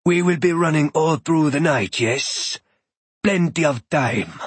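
a hint of a proud god introducing himself; unhurried, resonant-toned foreign god, lightly done; calm thunder god. Shango replies.

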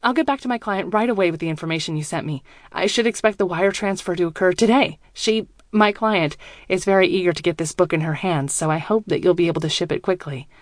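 quick, keyed-up voice; excited, wired. Acted. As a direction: rush it out, barely contained. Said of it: "My voice sounds excited, wired".

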